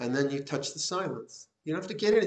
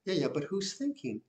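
higher, quicker voice of a protesting mind; objecting inner mind; 6 semitones higher than usual. Retold or imitated. Teacher voicing the mind that resists the practice, higher and quicker. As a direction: play the restless thinking mind talking back. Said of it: "and then the mind".

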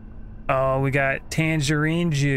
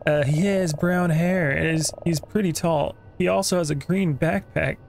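lightly voiced worried customer, slightly raised pitch; searching brother; 3 semitones higher, slower than usual. Customer describing his missing brother to the clerk, lightly voiced role. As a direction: describe him slowly at first, a touch higher.

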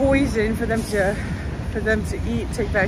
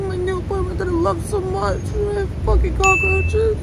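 crying, worn out; 9 semitones higher than usual. Real, not acted. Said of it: "I can't stop crying".

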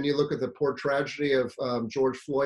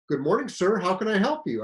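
mock-polite greeting, a touch raised and louder; sarcastic politeness; 5 semitones higher, 3 dB louder than usual. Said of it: "totally a sarcastic response".

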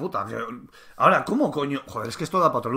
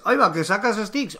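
sorpresa exagerada, aguda; Sony imitada; 5 semitones higher than usual. Retold or imitated. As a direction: hazte el sorprendido burlón. (Sony fingiendo asombro)

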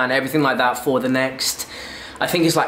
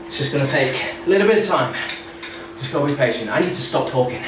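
out of breath after a set; talking while out of breath. Real, not acted. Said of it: "I'm out of breath".

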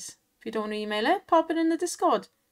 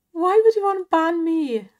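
indignant; 6 semitones higher, 8 dB louder than usual. Real, not acted. Mock outrage at ban request.

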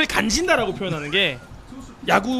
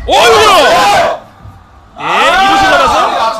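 loud, high shout, drawn out; excited play call; 7 semitones higher, 9 dB louder, much slower than usual. Real, not acted. Live call of a hit.

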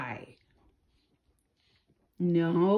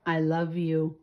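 tender; 5 semitones lower than usual. Real, not acted. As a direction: murmur it to your pet. Tender words to the pet.

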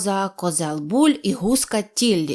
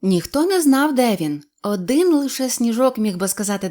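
plain reading voice

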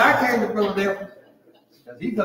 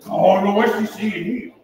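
laughing disbelief; 6 dB louder than usual. Retold or imitated. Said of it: "'Cause I'm like".

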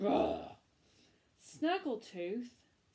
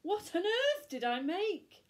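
high, alarmed witch voice; dismayed witch; 10 semitones higher, 5 dB louder than usual. Acted. Witch horrified at her creation, high and alarmed. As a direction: wail it in disbelief. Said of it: "witch dismayed".

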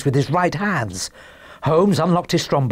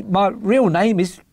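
high, halting little man; reluctant admission; 6 semitones higher than usual. Acted. Little man confessing his real name, reluctant. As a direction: pause before owning up.

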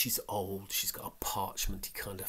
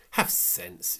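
curt, sharp rebuke; said sharply; 3 semitones lower, 4 dB louder than usual. Acted. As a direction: snap at him to be sensible. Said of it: "she said sharply".

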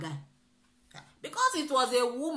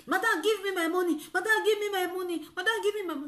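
retold pleading; 8 semitones higher, faster than usual.

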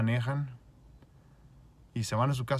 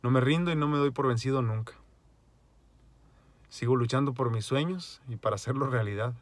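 loud, rousing declaration; rallying motto; 2 semitones higher, 4 dB louder than usual. Real, not acted. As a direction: proclaim it like a battle cry. Repeating his motto.

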